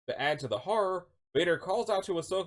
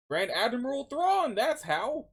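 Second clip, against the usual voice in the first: high, emphatic announcement; triumphant reveal; 10 semitones higher, slower than usual. Shown as a demonstration. Answering how you top season two, triumphant reveal. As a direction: announce the name slowly, pitched right up.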